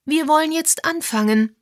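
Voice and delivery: high, loud announcement to the room; calling out. A narrator's reading. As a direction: bring the meeting to order. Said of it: "rief Misses Mason".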